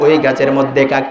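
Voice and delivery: gentle, patient reply with a smile; smiling answer. Retold or imitated. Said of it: "আমি আবার হাসি মুখে জবাব দিলাম". (হাসি মুখে নরম জবাব)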